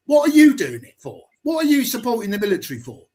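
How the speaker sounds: jab the question at him; heated challenge to a veteran; angry demand. Real, not acted. Confronting veteran, heated argument.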